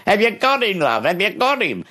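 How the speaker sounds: high, eager call from the kitchen; wife calling to husband from the kitchen. Retold or imitated. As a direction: call out anxiously to her husband. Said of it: "She's come through the kitchen".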